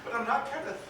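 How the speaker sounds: loud, high, desperate shouting at God; furious rant. Acted. A grieving man raging at God over the dead boy, screamed. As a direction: rage at heaven at full voice.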